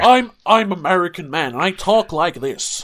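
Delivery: mocking a bad American accent, lightly done; a lazy fake American accent. Mocking the actor's bad American accent, lightly done. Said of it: "pretty bad American accent".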